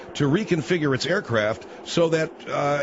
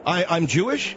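mocking the caller; 3 semitones higher than usual. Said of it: "calling the Anti-Defamation League and saying what".

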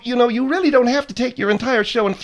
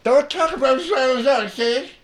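slushy lisp from a missing tooth. Real, not acted. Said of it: "We can't understand a word you're saying".

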